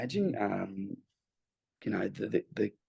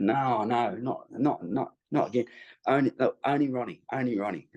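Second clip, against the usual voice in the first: Impression of a famous rock singer; 3 semitones higher than usual. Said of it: "that was my impression of Mick".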